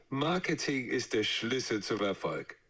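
giggling delivery; laughing. Shown as a demonstration. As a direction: say it through laughter. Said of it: "Wo war die lachende Version?".

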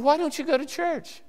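pitched high, amazed why; incredulous question. Retold or imitated. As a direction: jump up high in disbelief. Preacher questions the lapsed salesman.

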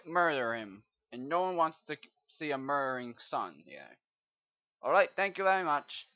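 loud, hammed-up British shouting at a villager; British accent. Player scolds a Minecraft villager, loud mock British accent. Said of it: "I sound like the person from Britain".

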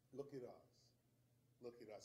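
dropped low and soft; quiet. Acted. Urging the audience to look at themselves, quietly. Repeated softer after louder take.

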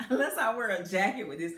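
giggling through the words; laughing. Real, not acted. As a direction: laugh while you say it. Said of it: "I'm just laughing because".

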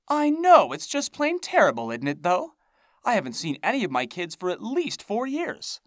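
high, loud theatrical wail; wailing crone. A narrator's reading. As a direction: wail it like a dramatic old hag. Hag wailing about lost kids.

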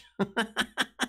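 high, even chain of chuckles; staccato chuckle. Retold or imitated. Laughing at his own tech garage joke, chuckling. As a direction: chuckle in short separate bursts.

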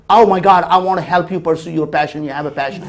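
mild mock delight of a doting parent; mock gushing parent. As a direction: play the overeager parent lightly. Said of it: "That's same as saying".

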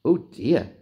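lightly voiced old lady; a hint of a fretful old lady. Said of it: "thought the little old lady".

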